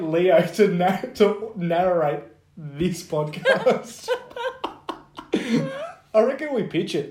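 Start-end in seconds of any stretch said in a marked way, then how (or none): 1.1-5.3 laughing. Real, not acted. Excited pitch idea. 5.3-7.1 excited. Real, not acted. Excited plan.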